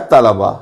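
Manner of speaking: तलबा with a vowel after ल, ta-la-ba; correct pronunciation. Shown as a demonstration. Teacher summing up the vowel marks, तलबा as ta-la-ba. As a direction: say तलबा as three syllables. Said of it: "तो इसका तलफ़ुज़ किया जाता है".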